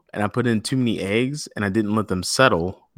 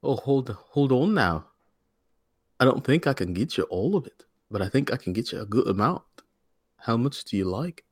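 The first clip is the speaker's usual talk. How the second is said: Irish banker; 2 semitones higher, 4 dB quieter than usual. Pretend. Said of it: "you pretend to be an Irish banker".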